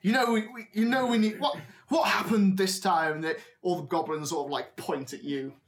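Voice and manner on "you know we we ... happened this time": put-on mildly exasperated old man, a bit higher; lightly voiced ringmaster. Old man to his injured acrobat, mildly exasperated. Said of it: "He's like".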